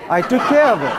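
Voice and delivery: hint of a TV gangster reporting a job done; Sopranos mobster. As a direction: deliver it like a Sopranos mobster, lightly. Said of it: "it sounded like, you know, Sopranos".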